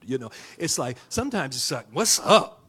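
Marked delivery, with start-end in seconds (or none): 1.9-2.6 casual prayer. Retold or imitated. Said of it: "You ever prayed a prayer like that?".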